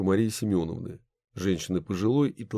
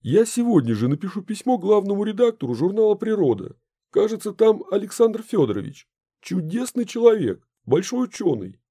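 eager promise; 12 semitones higher, 5 dB louder than usual. A narrator's reading. Mints eagerly promises to write.

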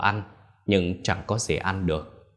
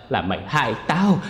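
cursing; 3 semitones higher than usual. Acted. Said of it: "mà chửi".

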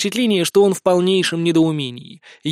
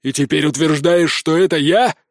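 growling; 4 dB louder than usual. A narrator's reading. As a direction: press the words out, louder at the end. Prince confronts daughter.

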